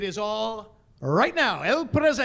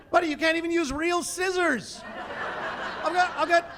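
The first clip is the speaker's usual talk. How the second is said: loud, higher furious chef ranting; mock-furious chef ranting at a child; 8 semitones higher, 5 dB louder than usual. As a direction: tear into the kid like a hothead chef.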